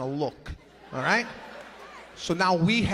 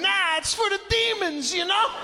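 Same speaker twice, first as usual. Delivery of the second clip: sheepish explaining; 12 semitones higher than usual. Retold or imitated. Explaining to girlfriend, amused.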